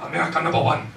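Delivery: hammed-up Bush accent; George Bush. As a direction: put on a mock presidential Bush accent. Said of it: "I don't know why I made Bush that accent".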